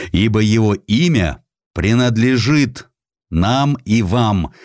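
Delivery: ordinary delivery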